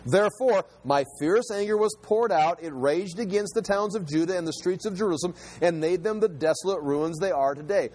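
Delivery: emphatic reading of God's indictment; declaimed scripture, building then settling. Acted. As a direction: read the verse as a stern charge.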